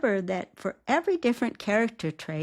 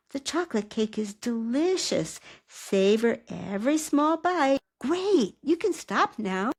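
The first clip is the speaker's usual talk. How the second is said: higher, upbeat coaxing with a big lift on Great; encouraging cheerleader; 3 semitones higher than usual. Shown as a demonstration. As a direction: praise each bite like a cheerleader. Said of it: "your character's cheerleader".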